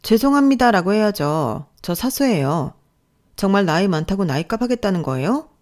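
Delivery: indignant, restrained reproach; angry mentor. Acted. Mentor to apologising trainee, restrained anger. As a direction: correct and reproach a junior colleague. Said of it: "그때 저에게 화를 내더군요".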